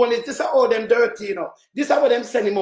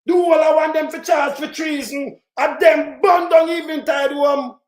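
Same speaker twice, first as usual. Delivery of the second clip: angry shouting; 3 semitones higher than usual. Real, not acted. Vlogger demanding treason charges, angry shout. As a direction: demand it, hot with anger.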